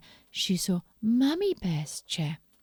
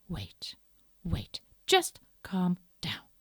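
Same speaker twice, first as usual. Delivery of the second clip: calming Mummy Bear; slower than usual. Acted. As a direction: hush them down gently. Mummy Bear calms everyone.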